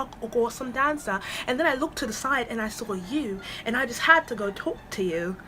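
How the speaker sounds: put-on lightly done British accent, politely chatting up; a hint of a smooth British man; mild imitation of a British accent. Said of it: "I'm gonna do accent".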